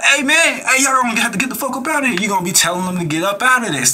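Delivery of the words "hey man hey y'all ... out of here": higher, fast, rough get-out shout; rough yell. Retold or imitated. Telling trespassers to leave, rough fast yell. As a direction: run them off your property, hard and fast. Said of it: "Nah, you gonna be like".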